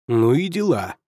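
a bright, hearty outburst from the officer; officer bursting in with cheerful surprise; cheerful exclamation. A narrator's reading. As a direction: greet him with a lively "well, well!". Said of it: "воскликнул он на безупречном английском".

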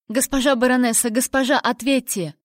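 alarmed servant's cry; urgent calling. A narrator's reading. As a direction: call through a door, begging for an answer. Maid calls through the door.

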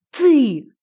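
hissed accusation; demonic whisper. Acted. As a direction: hiss it like a demon. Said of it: "прошипела демоница".

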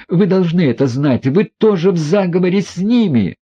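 high, tearful, slowed accusations; hysterical reproach. A narrator's reading. Aglaya accuses the prince and family in hysteria. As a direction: hurl it out near hysteria. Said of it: "в том истерическом состоянии".

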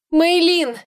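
звонко, громко и высоко окликнуть служанку; позвать от радости во весь голос; радостный оклик. Acted. Радостный возглас при встрече. (героиня радостно окликает служанку, громкий возглас)

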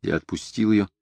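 plain reading voice

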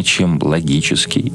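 ordinary delivery

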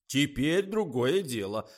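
pleased. A narrator's reading. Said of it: "обрадовался Николай".

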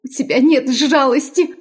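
high, cracking accusation; breaking voice. A narrator's reading. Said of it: "срывающимся голосом".

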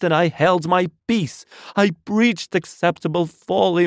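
high, loud ranting sermon; unrestrained loud preaching. A narrator's reading. Curate raves to God while in hiding, loud fervent preaching. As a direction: cry repentance aloud, stretching the key words. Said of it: "nothing I could do would moderate his speech".

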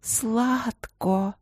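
slow, high, dreamy confession; swooning confidence; dreamy confiding. A narrator's reading. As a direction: share it sweetly, eyes rolling. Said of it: "тихо поделилась Винин".

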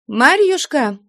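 high, loud call across the house. Acted. Flyonushka calls Maryushka from the door, loud and high. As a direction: call her name out loud. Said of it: "громким голосом крикнула".

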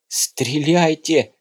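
slow, high, panicked cry; breathless shout. Acted. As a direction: gasp it out while running. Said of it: "задыхаясь, прокричала Марта".

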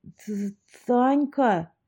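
put-on stammering, tongue-tied drunk; slurred drunk speech. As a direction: stumble over it like a drunk. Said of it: "заплетающимся языком проговорил мужик".

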